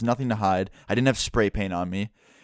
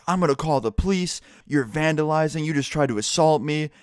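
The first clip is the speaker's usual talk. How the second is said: mock yell, pitched higher without real volume; retold screaming; 5 semitones higher than usual. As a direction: imitate a worked-up guard's screaming, held back. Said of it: "started screaming at me".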